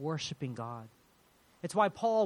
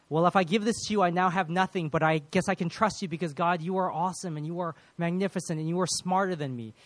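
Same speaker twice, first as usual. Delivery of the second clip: higher, animated and pressing; outpouring praise; 5 semitones higher, 6 dB louder than usual. Acted. Believer handing everything to God, praise flowing out freely. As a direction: let praise tumble out with rising conviction. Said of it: "the praise naturally starts to flow out".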